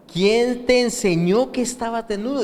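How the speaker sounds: mildly astonished, pitch lifted; acted surprise. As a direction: ask it as if taken aback. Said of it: "Y, y él estaba sorprendido".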